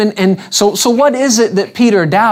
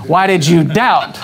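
"why did you doubt?" as a mild reproach with a falling end; the usual scolding reading of "why did you doubt?"; chiding disciple's failure; scolding rebuke. Shown as a demonstration. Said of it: "what do we normally do?".

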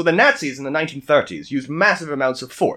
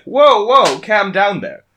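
all-American guy; 4 semitones higher, 4 dB louder, slower than usual. Acted. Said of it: "And he's like".

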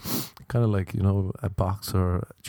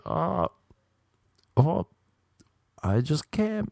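higher hammed-up fake orgasm; mock climax moan; 8 semitones higher, slower than usual. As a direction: fake it with high mock moans.

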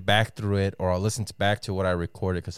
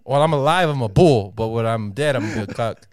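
punchline bit; 3 semitones higher, 8 dB louder than usual. Pretend. Joke delivered as podcast bit.

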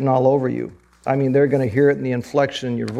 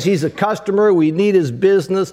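higher-pitched, lightly acted boss pressing his point; insistent boss; 6 semitones higher, 4 dB louder than usual. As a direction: overrule a reluctant employee, pitched up. Boss overrules reluctant employee, acted.

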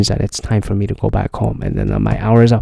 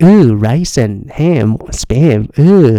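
mocking ooh; 3 semitones higher, much slower than usual. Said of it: "I was like".

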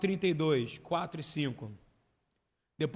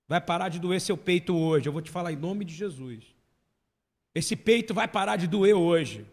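declaração profética; 6 dB louder than usual. Real, not acted. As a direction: proclaim healing with force. Prophetic declaration. (declaração profética lenta e forte)

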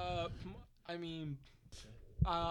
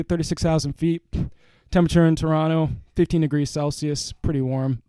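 louder, formal airline captain address; pilot announcement; 3 semitones higher, 8 dB louder than usual. Pretend. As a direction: welcome the cabin like a captain. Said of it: "Keep going".

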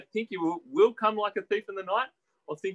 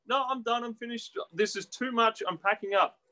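retold refusal; 6 semitones higher than usual. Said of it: "people who are gonna react like that".

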